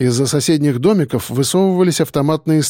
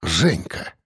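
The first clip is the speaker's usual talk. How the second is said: low, soft exhaled name; breathed out; 8 semitones lower, 6 dB quieter than usual. Acted. Narrator spotting Zhenka in the dark, soft breathed exclamation. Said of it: "выдохнул я".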